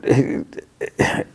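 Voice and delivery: short voiceless chuckle; breathy little laugh. Real, not acted. Laughs while puzzling over the neighbor.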